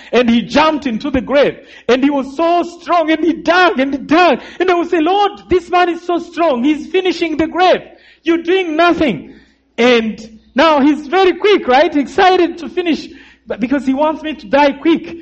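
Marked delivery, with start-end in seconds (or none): 5.0-9.4 pitched much higher, pleading complaint to God; retold desperate prayer. Survivor retelling his prayer while the killer digs, high and pleading. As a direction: cry out to the Lord, high and strained.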